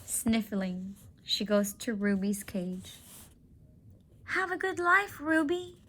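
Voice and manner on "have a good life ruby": put-on much higher girlish voice, tender and sad; a girl saying goodbye to her friend; young girl Julia.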